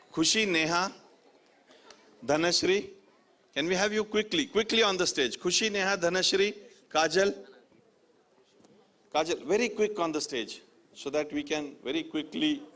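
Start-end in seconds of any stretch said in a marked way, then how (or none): 0.1-10.6 calling out names. Real, not acted. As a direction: summon them up with urgency.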